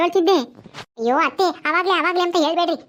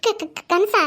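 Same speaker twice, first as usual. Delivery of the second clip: stammering disbelief; 3 semitones higher, much slower than usual. Acted.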